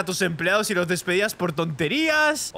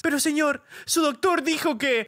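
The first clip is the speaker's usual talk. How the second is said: higher, pleading maid; 5 semitones higher than usual. Acted. Rosario pleading with her boss, higher timid voice. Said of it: "voy a improvisar".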